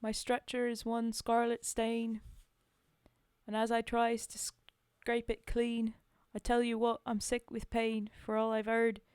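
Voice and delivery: a put-on British soldier's accent for the poem. Reciting a soldier's war poem aloud, in a put-on accent. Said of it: "I don't have to put on an accent".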